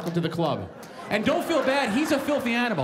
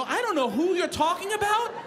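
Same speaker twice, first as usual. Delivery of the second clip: laughing; 10 semitones higher than usual. Retold or imitated. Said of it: "I go".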